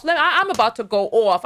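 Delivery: loud New York "I'm about to go off"; strong New York accent. Real, not acted. Warning her viewers in strong New York accent. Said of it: "my New York accent is so strong".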